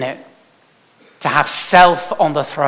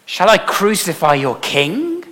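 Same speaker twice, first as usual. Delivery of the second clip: Pilate asking; 4 semitones higher than usual. Retold or imitated. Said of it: "Pilate asked".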